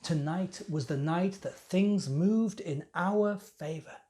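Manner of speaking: self-important priest confiding the night's events; young temple priest. Acted. Young priest explains the plot against the heretic, animated confiding monologue.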